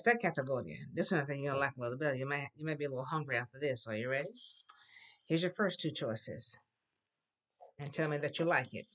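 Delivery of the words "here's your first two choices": hushed whisper; teasing stage whisper. Acted. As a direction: whisper it like a secret. Teacher teasing class with choices.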